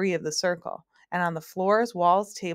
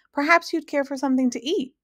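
a lightly voiced magician, higher and louder, offering food; math magician; 8 semitones higher, 5 dB louder than usual. Magician offering his guests a bowl, lightly voiced host.

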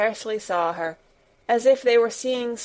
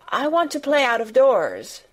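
bright, louder, holding back nerves; trying not to tremble; 5 semitones higher, 6 dB louder than usual. A narrator's reading. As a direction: push through the nerves. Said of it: "hoping that her voice did not tremble".

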